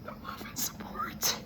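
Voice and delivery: words barely come out, choked by tears; voice giving out. Real, not acted. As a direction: voice breaking into a whisper. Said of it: "lose my voice again".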